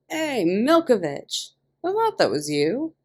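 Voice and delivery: loud, high, drawn-out excited call; excited greeting. A narrator's reading. Old acquaintance calling excitedly to Mickey in prison. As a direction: shout it out gleefully like spotting an old friend. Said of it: "the guy said excitedly".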